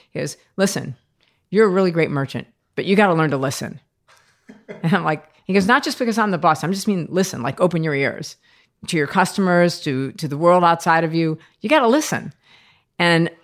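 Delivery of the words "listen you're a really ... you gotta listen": firm boss lecture. Retold or imitated. Boss lecturing her firmly.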